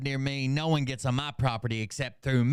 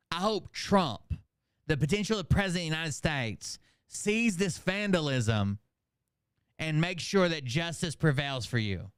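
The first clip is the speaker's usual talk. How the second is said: mock earnest; 2 semitones higher than usual. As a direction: drag it out, mocking the piety. Mocking reading of comment.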